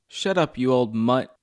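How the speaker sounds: a restrained mock yell at a dog; mild acted yell. Old lady to her poodle, mildly yelled. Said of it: "the lady yelled".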